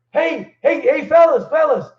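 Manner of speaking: high, pleading call from behind; calling after them. Retold or imitated. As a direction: imitate a nervous man hurrying to catch up. Retold man calling after them.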